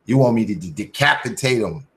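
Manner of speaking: a loud drawn-out ooh, then teasing; hammed-up eager reaction to the email; playful mock surprise, then a sly question; mock excited. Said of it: "I was like".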